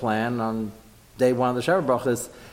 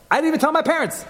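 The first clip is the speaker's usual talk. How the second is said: husband voiced; 3 dB louder, faster than usual. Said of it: "He says".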